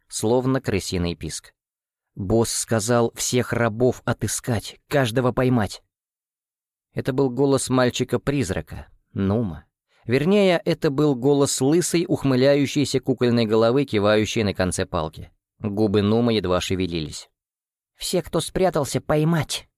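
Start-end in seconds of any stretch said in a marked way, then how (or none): 2.1-5.8 slow, sing-song, eerie; sing-song doll voice. Acted. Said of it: "странный певучий голос, высокий и нечеловеческий". 18.0-19.7 higher, squeaking puppet; squeaky doll voice. Acted. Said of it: "пропищала кукольная голова".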